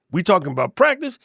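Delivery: lightly imitating the famous press conference; incredulous repeat of the word practice, mostly own voice; Allen Iverson quote. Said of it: "I'm Allen Iverson".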